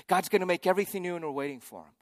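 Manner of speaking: rattled off fast like a tired refrain; same hope a year on, worn out; weary rote repeat. Retold or imitated. Pilgrims a year later repeating the hope, fast and weary. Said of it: "And then a year later".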